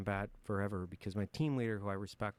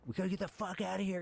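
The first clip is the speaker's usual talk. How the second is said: retold high panicked burst, fast; mock-frantic high plea to get out; panicked yell; 10 semitones higher, faster than usual. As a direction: blurt it out like you're losing it under fire. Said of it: "I'm, like, losing it".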